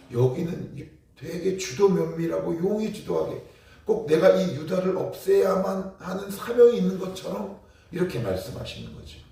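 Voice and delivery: ordinary talk, nothing marked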